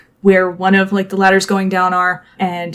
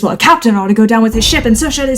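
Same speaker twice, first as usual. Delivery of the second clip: higher, quicker protest; indignant arguing; 5 semitones higher, faster than usual. Acted. Sailor disputes who leaves the sinking ship, quick indignant protest. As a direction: argue it hotly.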